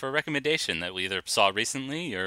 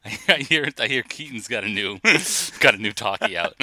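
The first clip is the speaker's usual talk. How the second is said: put-on old-timey voice; 5 dB louder than usual. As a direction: ham up a thirties newsboy. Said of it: "fun to talk old-timey".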